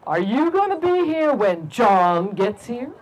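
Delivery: slow, lightly voiced cat question; measured, slow cat voice; talking cat. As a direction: draw out the question slowly, as a mildly ominous cat. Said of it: "it looked at the big, strong man and said".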